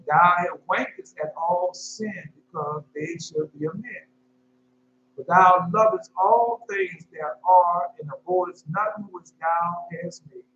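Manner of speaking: slow, solemn verse reading; scripture recital. Acted. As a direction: recite the verse slowly, like from the pulpit.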